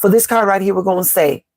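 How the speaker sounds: ordinary talk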